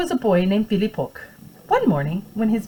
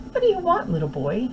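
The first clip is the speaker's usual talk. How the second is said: mild shout; 6 semitones higher than usual. Acted. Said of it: "he shouted".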